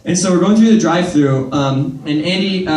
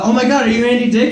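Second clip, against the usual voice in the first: starstruck guard; 6 semitones higher, faster than usual. Retold or imitated. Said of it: "security guard outside who's like".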